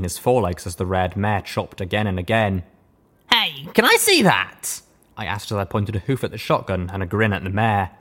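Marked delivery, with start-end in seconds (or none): 3.3-4.8 sly friendly ask. A narrator's reading. Asks with a grin.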